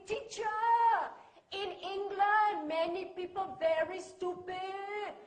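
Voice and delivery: put-on student's indignant local-English accent; Chai Shen. Student back from England tells teacher, indignant local accent. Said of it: "My seventeen-year-old student, Chai Shen".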